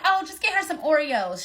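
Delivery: high, teasing friend voice. Retold or imitated. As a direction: tease her like a friend. Homegirl joking on the call.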